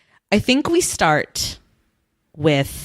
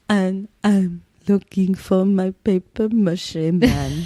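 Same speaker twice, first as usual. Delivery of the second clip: Phoebe sick voice; slower than usual. Retold or imitated. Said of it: "That's for all my Friends fans".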